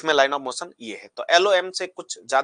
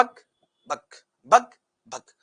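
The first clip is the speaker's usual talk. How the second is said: shooing away; 3 semitones higher, much slower than usual. Pretend. Particles shooing each other away.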